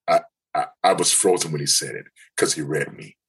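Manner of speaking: ordinary talk, nothing marked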